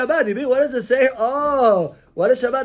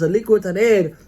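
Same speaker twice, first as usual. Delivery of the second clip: nice calm tone. Shown as a demonstration. Husband gently asking family to light candles, calm and kind. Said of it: "in a nice way".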